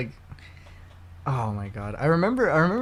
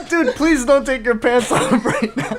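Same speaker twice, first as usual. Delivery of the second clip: mock annoyed neighbor; 7 semitones higher, 8 dB louder than usual. Playing annoyed neighbor in theater.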